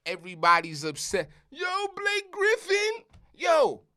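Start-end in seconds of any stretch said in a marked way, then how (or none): 1.5-3.8 high-pitched, drawn-out yell; loud hammed-up alarm; mock outcry. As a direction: cry the name out like an outraged fan. Mimics everyone upset over the signing.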